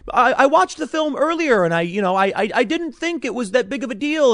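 a hint of a breezy media insider; mocking media people. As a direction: lightly mimic a shrugging pundit. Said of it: "there are people in media saying".

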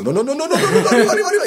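high, loud cries of no, no, arriba; panicked yell. Retold or imitated. Sinking into the crowd, he shouts high and loud for them to lift him.

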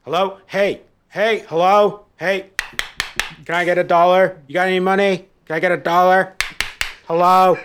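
high, loud mock begging voice; begging woman. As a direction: pester each car for a dollar.

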